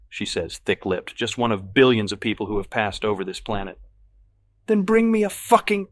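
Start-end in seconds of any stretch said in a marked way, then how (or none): 4.7-5.9 slow, much higher and louder enraged roar; enraged customer roars his order; furious roar. A narrator's reading. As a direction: roar it at the waitress, spitting. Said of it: "I roar".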